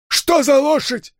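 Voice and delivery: high, slow menacing demand; demanding Enso. Acted. Gangster grilling the hero about the horse, high demand. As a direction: press him hard for the name.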